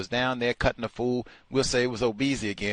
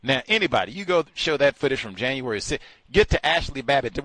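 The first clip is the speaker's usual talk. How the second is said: normal talking voice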